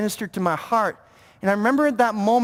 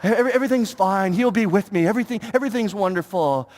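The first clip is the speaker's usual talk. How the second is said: lightly mocked, hurried reassurance; fake Christian; 3 semitones lower than usual. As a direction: insist all is well, a touch too piously. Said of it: "the plastic fake Christian".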